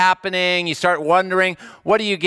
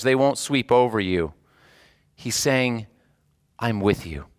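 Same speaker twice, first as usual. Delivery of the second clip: preacher reading Isaiah to a worried congregation; tender scripture reading; 3 semitones lower than usual. Acted. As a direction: reassure the listener gently.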